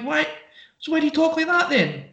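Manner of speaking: high, prissy mimic of the girls on the train; mocking posh girls' accent. Telling friends about girls on a train, high mocking accent. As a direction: pitch it way up, mocking their put-on accent. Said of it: "girls that were talking like that".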